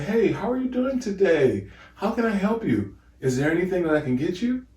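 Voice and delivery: high, light and polite customer-service voice; white people voice. Shown as a demonstration. Host demoing for listeners the voice he must use, high and polite. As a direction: switch up to an extra-friendly put-on politeness. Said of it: "if I come up to you and I say".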